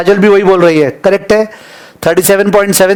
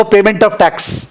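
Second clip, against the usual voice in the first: slow dictation; much slower than usual. Shown as a demonstration. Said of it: "please देखो".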